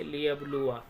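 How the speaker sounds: "लियबलुआ" ending on a short आ; don't hold the last आ of "लियबलुआ"; unstretched ending. Shown as a demonstration. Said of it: "ऐसे पढ़ेंगे". ("लियबलुआ" का आख़िरी आ छोटा)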